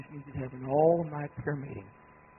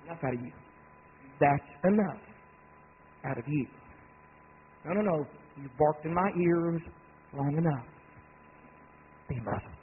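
scolding a dog. Acted. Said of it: "look at a dog and say".

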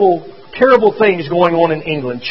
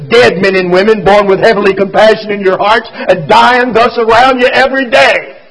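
louder, ringing preacher's declamation; solemn proclamation; 4 dB louder than usual. A narrator's reading. Preacher reading Dickens's death lament aloud, solemn and ringing. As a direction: proclaim it to the whole nation.

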